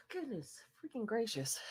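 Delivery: breathy whisper after a sneeze. Real, not acted. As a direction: whisper it to yourself.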